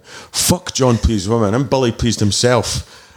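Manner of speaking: slow, lightly acted DJ boast; mock mic announcement. Warm-up DJ to the crowd, slow mock announcement. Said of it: "grabbed the mic, put the music down and went".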